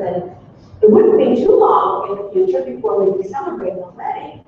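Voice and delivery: lightly voiced aged biblical woman recalling her story; Elizabeth persona. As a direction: tell it as an old woman remembering, hardly changing your voice. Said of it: "I'm gonna take off the Elizabeth persona".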